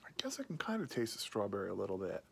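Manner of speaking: talking between pipe puffs; speaking with pipe at lips. Real, not acted. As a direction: pipe held near mouth. Seen 2: pipe held at lips while talking, smoke visible at start.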